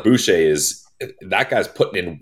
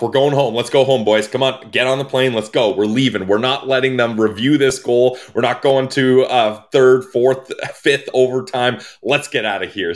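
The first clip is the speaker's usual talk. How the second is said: excited; 4 semitones higher than usual. Retold or imitated. Voicing Tkachuk leaving the ice.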